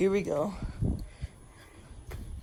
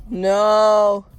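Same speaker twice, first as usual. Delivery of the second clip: sudden loud no; shocked shout; 2 semitones higher, 12 dB louder than usual. Real, not acted. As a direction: cry out in alarm. Just broke the toy.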